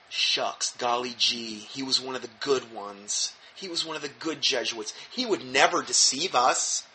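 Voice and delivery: sarcastic. Pretend. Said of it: "Rather sarcastically".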